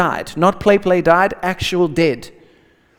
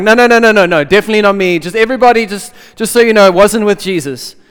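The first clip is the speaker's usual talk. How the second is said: louder, rushed string of no's; panicked denial; 7 dB louder, faster than usual. Retold or imitated. Preacher acting out Peter denying Jesus, panicked and loud. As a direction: Peter flustered, talking his way out. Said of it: "He's like".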